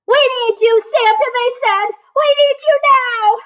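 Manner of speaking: high, breathless urgent plea ending in a whisper; high elf voices, pleading; urgent elves. A narrator's reading. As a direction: beg urgently, then whisper.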